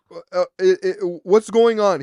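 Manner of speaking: loud, stammering exasperation; hammed-up, stuttering loud question; mock impatient demand. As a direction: imitate a flustered caller raising his voice. Exaggerated retold impatient caller.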